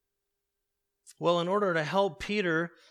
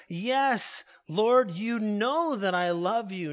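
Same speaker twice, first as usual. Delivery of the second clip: insist, pushing the words out; emphatic; 2 semitones higher, 5 dB louder than usual. Acted. Peter protesting his love to Jesus, emphatic and louder. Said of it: "The language is emphatic".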